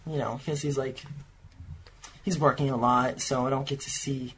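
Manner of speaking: low, quiet put-on character voice. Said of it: "Are you putting on a voice?".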